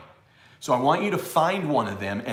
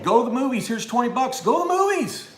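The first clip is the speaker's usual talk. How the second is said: mock high; 10 semitones higher, 5 dB louder than usual. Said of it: "They're saying".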